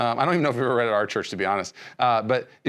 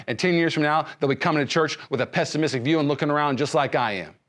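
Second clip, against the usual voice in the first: pessimistic Christian. Retold or imitated. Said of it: "the pessimistic Christian ... says this".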